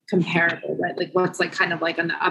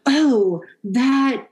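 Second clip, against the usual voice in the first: higher, laughing through a mock-grand pitch; laughing mock salesman; 4 semitones higher, slower than usual. Mocking showy developers to Maddie, laughing in a raised voice. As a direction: mimic a pompous seller while cracking up. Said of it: "people that do that are like".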